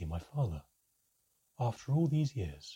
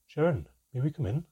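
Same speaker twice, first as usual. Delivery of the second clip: urgent; 6 semitones higher, 5 dB louder than usual. Acted. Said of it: "the urgency in his voice".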